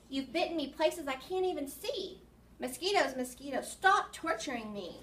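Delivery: dramatic, exasperated recitation with swooping pitch; pleading poem read-aloud. Acted. Teacher reads a poem begging mosquitoes to stop, pleading recitation. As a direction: read it to children as a mock plea, in rhythm.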